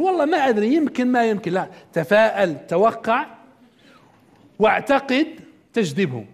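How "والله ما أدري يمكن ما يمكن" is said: doubtful. Acted. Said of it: "وتقول".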